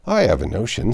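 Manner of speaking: hearty gentleman with a notion; Sir John voice. Acted.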